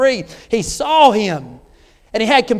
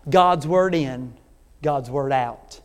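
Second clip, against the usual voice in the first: slow emphatic saying; 7 semitones lower, 3 dB quieter, much slower than usual. Acted.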